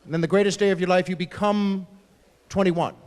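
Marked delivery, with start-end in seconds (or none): 1.1-2.9 touch of grand ceremony; ceremonial. Shown as a demonstration. Comic on the greatest day of life, ceremonial. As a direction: announce it like a milestone. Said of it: "even the word sounds like a ceremony".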